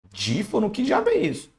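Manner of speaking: mock-baffled pupil, pitch jumping up; puzzled student's outburst. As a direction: play a student thrown by a new word.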